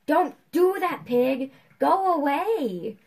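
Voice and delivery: high, loud protest; alarmed shout. Real, not acted. Player shooing a pig in the game, high loud shout. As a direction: shout it high, drawing out the last words.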